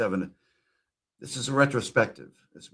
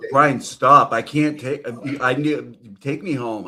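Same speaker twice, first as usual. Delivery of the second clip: loud, higher fake begging; mock desperate plea; 3 semitones higher, 7 dB louder, slower than usual. Streamer begging the clip guy to take him home, mock plea. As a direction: beg him to stop, hammed up.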